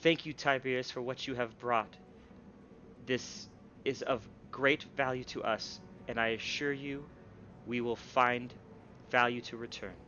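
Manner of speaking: lightly voiced weak, halting speaker; a touch frail, as if the voice is seldom used. Game master as Shale thanking Tiberius, mildly weak voice. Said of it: "it's a weak voice".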